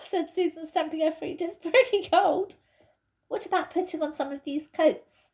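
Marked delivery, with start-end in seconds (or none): 1.4-5.3 put-on raised, girlish voice, impatient; Susan's voice. Susan, cramped in the wardrobe, complains impatiently. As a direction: voice a fidgety girl stuck in a wardrobe.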